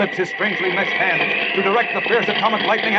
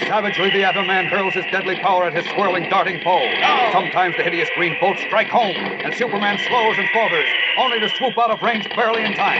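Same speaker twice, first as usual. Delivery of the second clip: dramatic narration. A narrator's reading.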